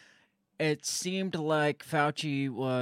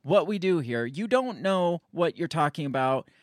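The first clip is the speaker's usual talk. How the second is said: mock condescension. Host mocking Fauci talking down to critics, mild sneer. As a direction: talk down like a smug expert. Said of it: "he's almost playing this whole".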